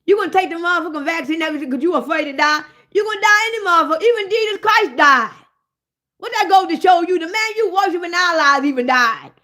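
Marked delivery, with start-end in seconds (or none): 2.9-7.6 heated outburst. Real, not acted. Heated rant peak.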